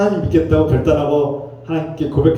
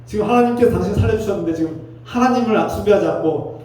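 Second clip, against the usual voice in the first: acted indignant scolding, higher pitched; angry scolding; 6 semitones higher than usual. Pastor imagines scolding Naaman over his idols, angry. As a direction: take someone to task in raised pitch. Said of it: "이렇게 막 화낼 수 있어요".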